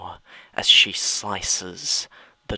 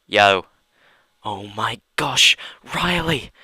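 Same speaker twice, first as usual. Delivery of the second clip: excited fan; 3 semitones higher, 7 dB louder than usual. Acted. Fan calling out to Riley, excited and loud. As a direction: gush at the star. Fan spots her idol.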